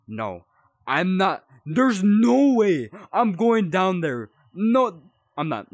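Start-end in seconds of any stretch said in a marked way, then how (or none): 1.7-5.7 loud, slow frightened no way; refuse, slow and scared; scared refusal. Real, not acted. Player refusing to go down to the basement, loud scared refusal. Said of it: "I'm too scared".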